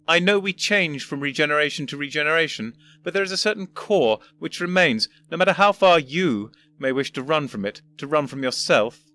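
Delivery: put-on a condescending old professor; pompous old gentleman. First Doctor lectures.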